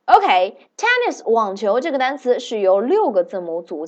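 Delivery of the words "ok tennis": "tennis" drawn out slowly; slow and clear. Shown as a demonstration. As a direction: stretch the word out for learners. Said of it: "跟董老师念一下".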